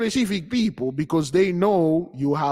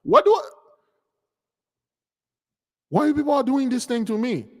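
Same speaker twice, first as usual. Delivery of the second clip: baffled quote; 8 semitones higher than usual. Retold or imitated. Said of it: "You're like".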